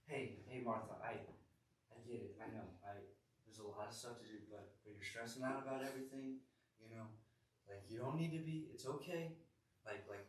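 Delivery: mildly acted soothing, soft and conversational; gently reassuring. Jesus calming stressed-out Martha, softly reassuring. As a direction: softly talk someone down.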